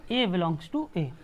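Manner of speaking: slow and even, each word spaced; slow dictation. Shown as a demonstration. Teacher reads the set notation slowly to the class. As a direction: read "ए belongs to ए" slowly so the class can follow. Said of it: "इसको क्या पढ़ेंगे?".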